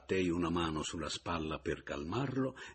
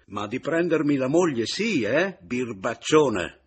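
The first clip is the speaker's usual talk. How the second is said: teasing; 7 semitones higher, 11 dB louder than usual. Acted. Teasing rival over wife.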